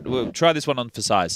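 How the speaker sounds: mic knocked on collar; mic bump. Real, not acted. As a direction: thud of the mic mid-line. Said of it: "I keep hitting my, my mic on my collar".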